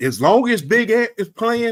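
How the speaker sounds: slow Southern drawl. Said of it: "That's that Southern accent".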